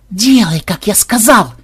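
barking at his granddaughter; barked order. A narrator's reading. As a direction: snap the order at her. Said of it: "рявкнул программист".

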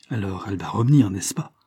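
rushed, anxious question; quick feverish asking; feverishly. Acted. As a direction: hurry the words out in worry. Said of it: "demanda Bernard fébrilement".

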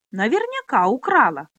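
loud squealing accusation; shrill accusation. Acted. Pona accuses Minolli of theft, loud and squealing. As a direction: squeal it out spitefully. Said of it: "взвизгнула Пона".

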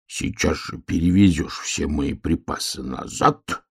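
usual speaking voice

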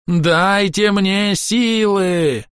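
desperate elf wailing in a strange voice; drawn-out wail. A narrator's reading. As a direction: stretch the cry out to breaking. Elf begging for strength.

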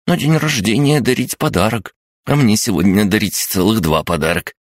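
high, chirpy little creature voice; chirping creature. Acted. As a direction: chirp it like an excited gremlin. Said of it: "терпеливо пояснил крабогном". (писклявое щебетание крабогнома)

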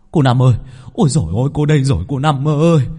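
high, loud frantic cry for help; panicked calling. A narrator's reading. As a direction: call out breathless and desperate. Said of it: "giọng hớt hải".

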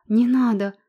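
a loud, desperate cry of no. Acted. Anna on her knees begging the crowd, a loud desperate cry. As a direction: shout to stop them. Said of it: "закричала она".

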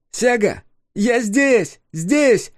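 high, bright ringing call; clear ringing voice. A narrator's reading. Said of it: "кристально чистый и звонкий голос".

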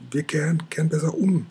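high, unvoiced frightened whisper; trembling breath. A narrator's reading. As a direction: breathe it out, scared stiff. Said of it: "haucht Orakelchen zitternd".

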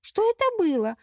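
high, loud startled cry; shocked question. Acted. Mermaid stunned by the vanished portal, high and loud. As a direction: gasp it out in disbelief.

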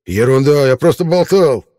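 high, hurried frightened babble; frightened babbling. Acted. Rollo scared of Mel, frightened babbling. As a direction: babble excuses in fear. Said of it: "испуганно пролепетал".

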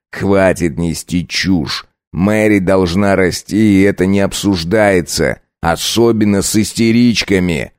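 slow, stern husband rebuke; mild snapped shout. Acted. Husband shouts down his wife. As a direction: lay down the law. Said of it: "тоже прикрикнул".

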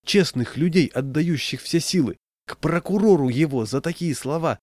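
a high indignant exclamation; a touch of fiery indignation; heated outcry. A narrator's reading. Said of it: "немедленно взвился".

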